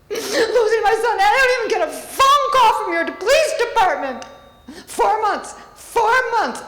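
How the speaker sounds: pleading through tears, barely holding it together; near tears. Real, not acted. Grieving mother confronting the village board, near tears. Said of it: "I'm gonna start crying".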